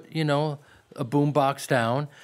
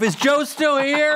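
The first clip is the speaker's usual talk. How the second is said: plaintive call; 9 semitones higher, 4 dB louder, slower than usual. Retold or imitated. Handcuffed actor calling out.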